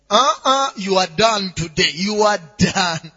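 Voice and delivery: loud accusing voices. Acted. Preacher imitates the voices in your head, loud accusing. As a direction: pronounce the verdict as a nagging inner voice. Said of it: "Are not silent at all".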